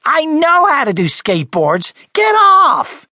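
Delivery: high, loud, furious insistence; gritted-teeth anger. Acted. Frederick pushing Charlie off the skateboard, furious shout. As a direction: build to a shouted order through gritted teeth. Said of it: "he gritted his teeth and added".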